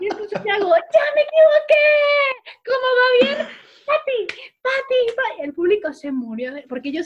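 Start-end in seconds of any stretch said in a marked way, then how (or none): 0.0-5.4 very high, very loud, shrill, crazed, frantic screaming. Retelling a flubbed cheer on stage before the audience: retelling shouting like crazy. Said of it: "Seguí gritando como loca".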